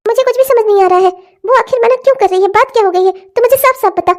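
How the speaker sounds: high, fast mother's voice fussing over her daughter; a fretting mother coaxing her crying girl; worried old mother. Acted. (बेटी को पुचकारती चिंतित माँ)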